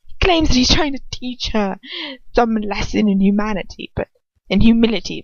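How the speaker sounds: lightly voiced conspiratorial Dolohov. Dolohov muttering suspicions to Voldemort, lightly voiced. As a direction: murmur it like gossip. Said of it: "get right back into that Dolohov voice".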